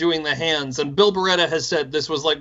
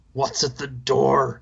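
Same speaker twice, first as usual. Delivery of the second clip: put-on slow, hammy French accent; mock French accent; 3 semitones lower, slower than usual. Quoting the film's French character to his cohost in a hammy French accent. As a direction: drag out a cartoon French "What's at the door?".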